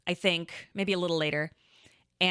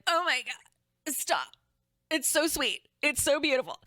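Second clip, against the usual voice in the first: retold crying; 8 semitones higher than usual.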